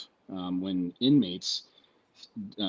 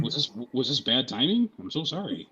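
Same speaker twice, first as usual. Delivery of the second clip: higher-pitched feigned innocence; mock apology; 5 semitones higher, 5 dB louder than usual. Student apologising to the professor for his timing, mock innocence. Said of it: "And I was just like".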